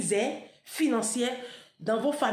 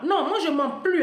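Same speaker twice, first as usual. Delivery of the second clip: laughing; 6 semitones higher, 6 dB louder than usual. Real, not acted. Laughs, insists she's not lying.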